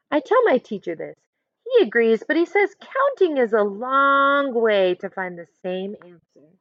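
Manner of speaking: put-on lively picture-book narration for kids; reading a story aloud. A narrator's reading. Teacher reading a picture book to her class, storytelling voice. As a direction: read it as Amanda telling her own story.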